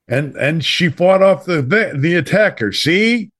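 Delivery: put-on old movie newspaperman. Host mimicking how old movie newspapermen talked, lightly hammed-up. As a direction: toss it off like a wisecracking film newsman, ending on "See?". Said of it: "and they would talk like".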